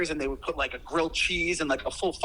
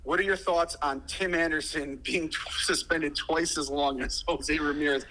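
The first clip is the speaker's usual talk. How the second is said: phone speaker; 6 dB louder than usual. Real, not acted. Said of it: "you're on speaker".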